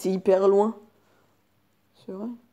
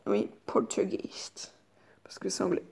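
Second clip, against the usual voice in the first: voice changer; 10 dB quieter than usual. Acted. Voice changer effect poltergeist.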